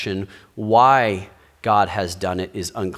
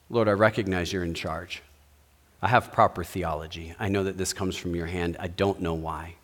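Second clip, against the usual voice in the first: hushed prayer; 6 semitones lower, 6 dB quieter than usual. Acted. Worshiper's humble prayer voiced.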